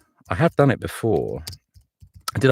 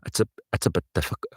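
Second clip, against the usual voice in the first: quick Geordie practice attempt; halting try at a Newcastle accent; faster than usual. Shown as a demonstration. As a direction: feel out the Geordie lilt. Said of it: "Newcastle's an awfully difficult accent".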